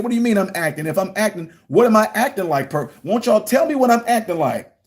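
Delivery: mock-innocent pressing; retold indignant challenge. Retold confrontation with administration.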